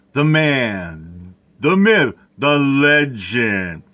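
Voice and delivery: big showman build-up, last phrase stretched slow; grand hype intro. Pretend. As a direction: announce him like a legend. Hyping up a channel host.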